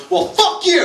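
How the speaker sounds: bratty niece yelling. Retold or imitated. Seven-year-old niece swears back.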